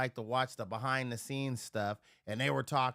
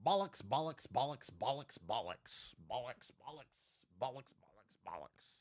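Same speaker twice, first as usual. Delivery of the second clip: mock British bollocks; 2 semitones lower, 7 dB quieter than usual. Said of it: "I heard this was a bad word in your country".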